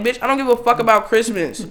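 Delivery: high-pitched, acted-out retort; blunt exasperation. Voicing the real feeling behind a polite email, exasperated. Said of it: "translating it to how it really felt".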